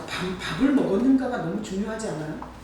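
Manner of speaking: usual speaking voice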